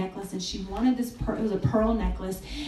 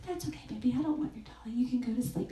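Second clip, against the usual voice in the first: soft dad; 7 dB quieter, faster than usual. Retold or imitated. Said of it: "And he said".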